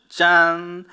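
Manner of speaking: put-on spring the surprise on the kids; dramatic ta-da. Teacher revealing the parting sea to children, loud ta-da. Sea suddenly parts in story.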